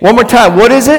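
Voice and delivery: high, loud prompt to the congregation; rousing call-out. Real, not acted. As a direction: fire up the crowd to answer. Preacher calls congregation to answer.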